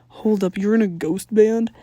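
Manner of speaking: loud, incredulous question; can't believe what he heard; stunned disbelief. A narrator's reading. Tucker stunned by news.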